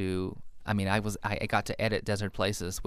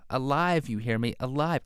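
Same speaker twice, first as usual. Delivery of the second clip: mildly hammed-up insistent cry, pitch raised on "Alive"; half-hearted melodramatic outcry; mock scream; 4 semitones higher than usual. Author reading his story's husband shouting at the sofa, mock scream. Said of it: "I screamed at the sofa".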